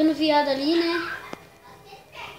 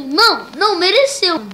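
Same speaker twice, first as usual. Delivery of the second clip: gloating shout; 4 semitones higher, 10 dB louder than usual. Real, not acted. Gloating at another player.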